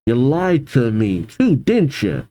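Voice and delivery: muffled, hurt accusation. Acted. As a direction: speak as if through a gag. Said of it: "Still in her weird, muffled voice".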